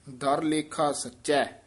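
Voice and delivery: slow ਦਰ ਲੇਖਾ ਸਚੈ, then rest; pause after ਸਚੈ. Shown as a demonstration. Teacher showing a pause, slow and careful. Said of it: "ਇੱਥੇ ਵਿਸਰਾਮ ਹੈ".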